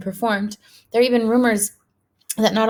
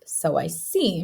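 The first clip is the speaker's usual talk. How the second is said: softer, lower, dry and mild; teacher mildly amused at the dozing boy; 3 semitones lower, 4 dB quieter, slower than usual. Acted. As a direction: let him off gently. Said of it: "tells him mildly".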